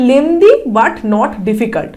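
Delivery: slow, deliberate "lengthy but not difficult"; teacher reads the right choice aloud; reading the correct option. Shown as a demonstration. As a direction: spell out each word of the answer. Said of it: "third ওয়ানই লাগছে".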